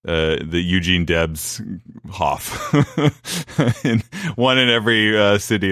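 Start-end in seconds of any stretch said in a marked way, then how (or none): 2.1-5.7 breaking into a high laugh mid-joke; cracking up at his own joke. Real, not acted. Host joking about a Eugene Debs Hof, laughing.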